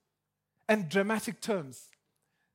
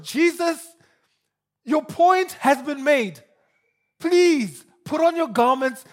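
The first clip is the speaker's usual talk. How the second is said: louder, higher exasperated plea, slowing at the end; pleading Peter; 4 semitones higher, 6 dB louder than usual. Retold or imitated. Peter begging Jesus to put his garments on, exasperated. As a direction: beg him to stop, embarrassed and urgent.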